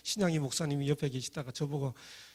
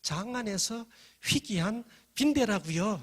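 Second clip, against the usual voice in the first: slow, louder mock-giggled punchline; laughing punchline; 5 semitones higher, 4 dB louder than usual. Girl mocking the freeloading student, giggling. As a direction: deliver it through a cackle. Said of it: "막 깔깔 웃으면서".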